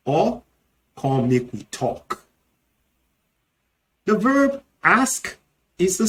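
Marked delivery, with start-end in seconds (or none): 1.0-2.2 Nigerian Pidgin. Shown as a demonstration. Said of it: "can also be talk or yarn".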